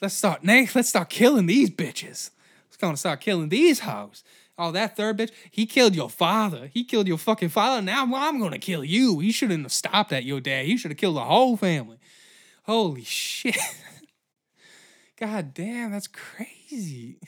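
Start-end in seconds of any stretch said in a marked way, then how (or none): 0.0-12.0 mock vengeful wife. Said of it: "she was like". 15.2-17.2 hushed unvoiced aside; whispered amazement. Real, not acted. Whispered aside after laugh.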